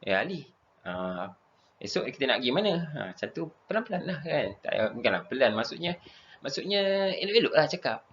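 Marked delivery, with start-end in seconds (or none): 0.1-2.7 gentle polite tone. Shown as a demonstration. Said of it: "Cakap dia elok".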